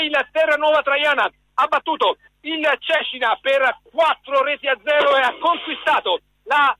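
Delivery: excited full-time wrap-up; live radio commentary. Real, not acted. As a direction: announce the final result. Final whistle live commentary.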